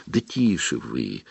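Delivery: low, soft, urgent plea; hushed pleading. Acted. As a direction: beg them to keep quiet. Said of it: "взмолился Гарри".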